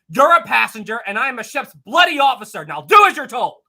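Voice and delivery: retold snap. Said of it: "Lowe snapped".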